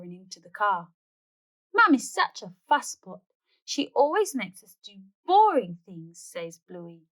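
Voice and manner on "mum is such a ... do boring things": put-on higher, louder whiny kid voice; grumbling child. Bluey to Dad about Mum, higher whiny complaint. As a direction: complain like a cross little girl.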